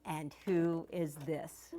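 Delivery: slow, soft, sweet phone greeting; sweet grandmother. Retold or imitated. Grandmother answering a grandchild's phone call, very sweetly. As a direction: imitate a grandmother asking sweetly, softly and slowly. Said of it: "she would say very sweetly".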